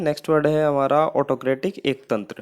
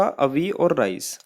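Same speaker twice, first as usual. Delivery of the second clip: slow keyword; much slower than usual. Shown as a demonstration. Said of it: "keyword देखते हैं हम इसका".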